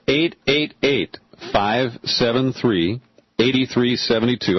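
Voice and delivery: slow, spaced-out phone number; said slowly. Real, not acted. Host gives the call-in number for new Boston listeners, slowly. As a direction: read each digit slowly and separately. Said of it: "I've been trying to say it slowly".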